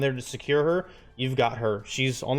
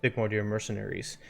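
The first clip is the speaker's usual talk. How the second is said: game master narration. Acted. Game master introducing a new player to the scene, measured narration.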